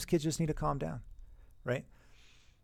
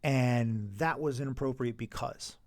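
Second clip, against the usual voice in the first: accusing teacher; slower than usual. Retold or imitated. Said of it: "I don't ever accuse kids".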